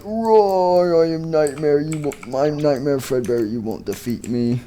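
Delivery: mock villain roar fading to a mutter; monster boast. Nightmare Fredbear boasting to the toys in a mock growl. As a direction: growl out the threat, then let it drop.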